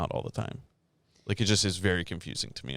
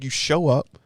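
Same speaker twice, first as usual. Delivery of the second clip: retold heated rant; 4 semitones higher, 4 dB louder than usual.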